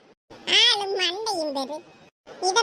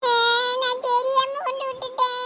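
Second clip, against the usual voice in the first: pretend crying; 2 semitones higher than usual. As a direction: fake a tearful, whining confession. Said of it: "சரி, அழாத". (பொய்யா அழுது இழுத்துப் பேசுவது)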